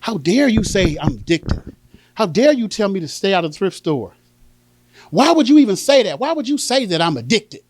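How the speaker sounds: mock-indignant mother. Mother answering her daughters' intervention, indignant. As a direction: act affronted, stretching out "how dare you". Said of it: "she got indignant".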